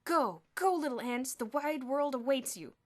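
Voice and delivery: grand farewell. Acted. Bruno grandly freeing ants.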